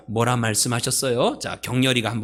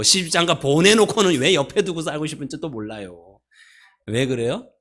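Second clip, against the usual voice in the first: normal talking voice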